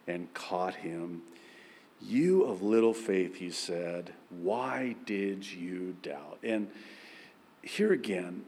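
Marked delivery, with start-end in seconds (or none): 2.0-6.4 softer, gentle reproach; tender, not scolding; gentle rebuke. A narrator's reading. Jesus speaks gently to Peter, soft and tender.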